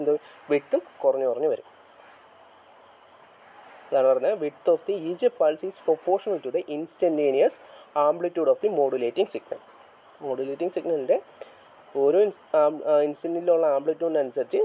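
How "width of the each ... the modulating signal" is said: slow dictation. Shown as a demonstration. Teacher dictating a definition to the class, slow and measured. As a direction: dictate the definition word by word, very slowly.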